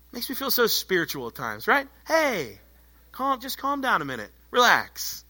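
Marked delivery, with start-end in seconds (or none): 2.1-5.2 softly talking someone down; lightly acted calming voice, a little lifted; mock soothing. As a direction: ease them down gently. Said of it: "somebody's all worked up".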